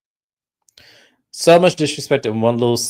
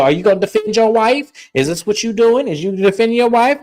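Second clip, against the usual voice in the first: higher, pointed challenging questions; mock confrontation; 9 semitones higher than usual. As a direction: corner the son-in-law, half-played. Mom confronting son-in-law.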